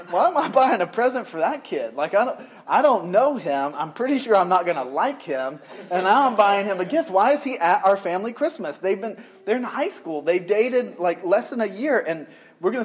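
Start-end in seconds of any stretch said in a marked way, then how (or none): 0.1-8.8 higher and louder, fed-up disbelief; exasperated rant. Retold or imitated. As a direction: sputter like a dad pushed too far. Frustrated dad retelling mall shopping.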